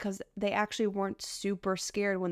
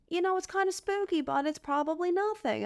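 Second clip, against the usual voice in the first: airy mock nonchalance; 9 semitones higher than usual. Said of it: "they're like".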